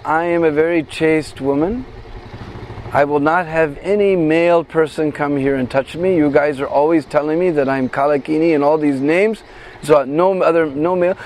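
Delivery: a hint of a chaste girl refusing; lightly voiced proud Radharani. Radharani refuses male touch.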